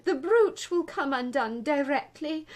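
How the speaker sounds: high, loud wail of dread; groaned out. A narrator's reading. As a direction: wail it as the suffering Queen. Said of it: "the poor Queen groaned out".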